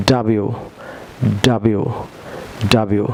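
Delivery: ডাব্লিউ drilled as short "dabiu"; teacher drilling the American ডাব্লিউ; model pronunciation. Shown as a demonstration. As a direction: repeat ডাব্লিউ as "da-biu" with a falling end. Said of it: "বলুন".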